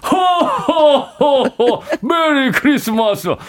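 put-on slow jolly old Santa laugh; Santa Claus voice. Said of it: "산타 할아버지 목소리 가능할까요?".

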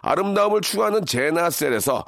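slow, punchy radio announcer; deliberate ad-read delivery; sponsor prize read. Acted. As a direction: announce each prize with stretched, stressed words.

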